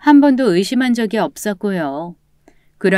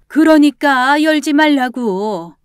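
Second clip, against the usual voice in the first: slow, higher insistent warning; insistent order; 5 semitones higher, 3 dB louder, slower than usual. Acted. Grandmother stopping roommate at the door, insistent. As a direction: press the order home, drawn out. Grandmother forbids opening to police.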